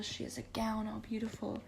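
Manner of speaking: breathy awed whisper. Real, not acted. Describing Rapunzel's ball gown in an awed whisper. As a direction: hush it like a secret.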